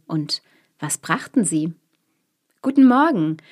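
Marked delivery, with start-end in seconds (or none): 2.6-3.4 high, loud greeting with stress on Guten; calling out. A narrator's reading. Travellers greeting the sentry, loud call. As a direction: call Guten Morgen up to the gate. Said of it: "riefen sie der Schildwache".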